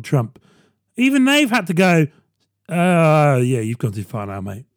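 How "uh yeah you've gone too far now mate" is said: mock Fox News. Fox News telling Trump off.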